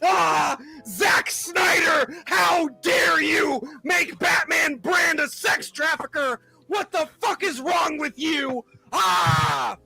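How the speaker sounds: whiny fan. Retold or imitated. Mocking fans who complain to Snyder, in a whiny drawl. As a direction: drag it out like an outraged nerd. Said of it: "sit here and go".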